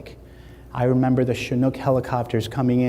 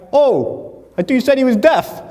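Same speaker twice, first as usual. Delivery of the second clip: high, loud retold astonishment; comic retold shock; shocked protest; 11 semitones higher, 6 dB louder than usual. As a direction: blurt it out, pitched up and incredulous. Acting out shock at overhearing father.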